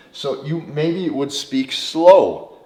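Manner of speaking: drawn out and unhurried, each word stretched; slow speech. Shown as a demonstration. Coach showing men how to speak slowly, unhurried. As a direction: speak slow like you own the clock. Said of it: "You're going to speak slower".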